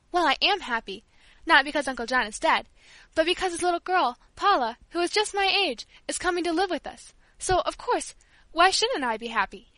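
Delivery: high, loud eager pleading; excited. Acted. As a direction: explain it all in a rush of joy. Child explaining excitedly.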